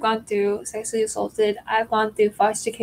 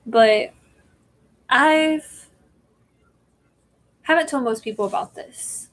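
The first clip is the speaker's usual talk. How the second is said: holding back tears; 3 semitones higher than usual. Real, not acted. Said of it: "I'm trying not to cry right now".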